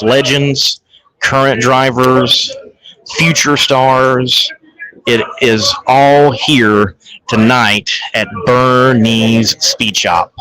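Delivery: hushed, slow golf commentary; golf announcer voice. Shown as a demonstration. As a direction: hush it like a televised golf call. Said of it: "I gotta go in my golf voice".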